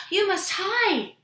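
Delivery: high, drawn-out warning from the cook; urgent cry. A narrator's reading. Cook warns Jack of the giant, urgent cry. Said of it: "she cried".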